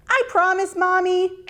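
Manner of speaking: put-on a child promising her mum eagerly; little girl. A narrator's reading.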